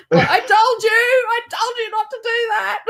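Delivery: high, sing-song gloating, laughing; mocking told-you-so. Husband mocked in retold story.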